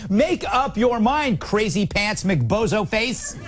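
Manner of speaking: slow, drawn-out comic scolding; mock exasperation. Host berates a pundit over a muddled claim, mock-exasperated. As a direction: scold him slowly, punching each silly word.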